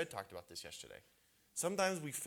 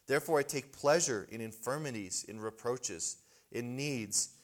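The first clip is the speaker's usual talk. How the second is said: louder, measured reading of scripture; 4 dB louder than usual. Acted. Preacher reading Paul's words aloud to the men, proclaiming. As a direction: proclaim the verses to the congregation.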